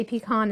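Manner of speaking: "pecan" said pee-KAHN; pee-con pronunciation. Shown as a demonstration. Cook reporting what southerners say too, "pecan" as pee-kahn. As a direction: give "pecan" a KAHN ending. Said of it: "a lot of southerners say".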